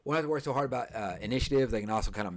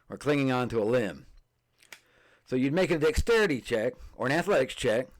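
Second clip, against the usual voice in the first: radio DJ voice; 3 semitones higher than usual. Shown as a demonstration. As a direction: read it like a hyped radio DJ. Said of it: "I'll read it like a radio D J".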